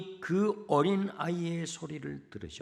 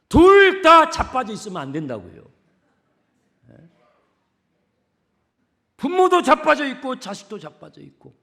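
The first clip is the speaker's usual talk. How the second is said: fiery preaching; 6 semitones higher, 15 dB louder than usual. Real, not acted. Preacher exhorting parents to rise.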